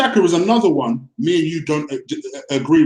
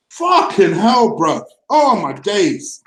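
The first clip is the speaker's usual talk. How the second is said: slow exasperated sigh; slower than usual. Real, not acted. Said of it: "now I'm getting emotional".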